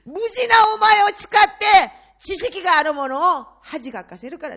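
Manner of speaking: 大きく高く、ゆっくり轟くように; booming voice of God. Retold or imitated. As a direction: thunder the Lord's answer slowly from on high. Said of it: "主がこういうふうにおっしゃった". (神の声をゆっくり大きく轟かせる)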